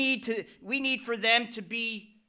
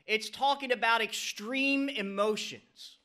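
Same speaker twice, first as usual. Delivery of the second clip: "extreme" held long for emphasis; stress on extreme. Real, not acted. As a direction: stretch out the second syllable of "extreme". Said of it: "emphasize on the word extreme".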